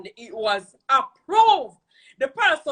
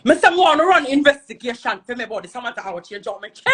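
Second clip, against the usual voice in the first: worked-up retelling; 4 semitones lower than usual. Retold or imitated. Angry retelling of her demand.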